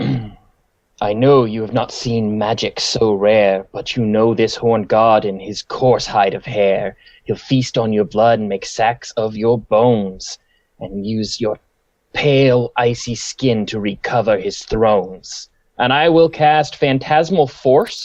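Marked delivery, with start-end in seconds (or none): 0.0-15.5 very deep, low, dark-sounding voice. Locking eyes with the dragon again before casting, in a deep voice. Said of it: "and the deep voice returns".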